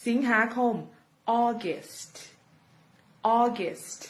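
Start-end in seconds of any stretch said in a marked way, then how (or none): 1.4-4.0 "August" ending clearly on "-st"; final st sound. Shown as a demonstration. Teacher reminding learners not to drop the "st". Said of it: "อย่าลืม st ด้วยนะคะ".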